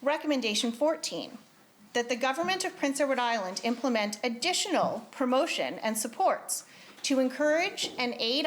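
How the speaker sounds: measured, formal reading of a committee report. Acted. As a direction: read it out to the legislature with formal care. Reads committee report in legislature.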